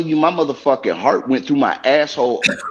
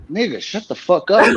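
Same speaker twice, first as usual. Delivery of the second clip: laughing retort; 4 semitones higher than usual. Retold or imitated. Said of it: "I'm like".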